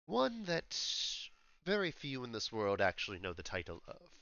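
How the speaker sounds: restrained London gentleman with long pauses; posh English accent. Acted. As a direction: reveal it in measured, posh English. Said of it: "very sophisticated, like, sounding English accent".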